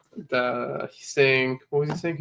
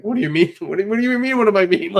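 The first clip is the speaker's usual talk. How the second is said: higher, louder laughing incredulity; mock bafflement; 6 semitones higher, 4 dB louder, faster than usual. Detailer retells his reply to a puzzled customer, mock bafflement. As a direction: build to an amused, high-pitched disbelief.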